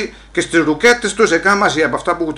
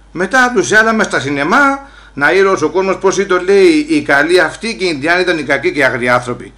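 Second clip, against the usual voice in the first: a louder, heated rant about history; 2 semitones higher, 4 dB louder than usual. Retold or imitated. A Greek immigrant lectures American police, heated loud rant. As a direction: rant it out with growing anger. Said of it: "Μη μίλεις έτσι".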